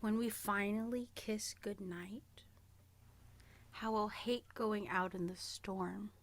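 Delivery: whispered lyric. Shown as a demonstration. Reading the clue to friend, whispered. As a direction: breathe it out in a whisper.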